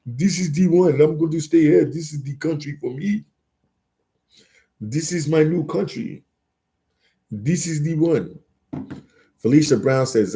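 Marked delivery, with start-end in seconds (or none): 0.0-8.4 higher, put-on voice of a thrilled traveller; imitating a friend. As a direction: play the friend who found his dream country. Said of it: "You're like".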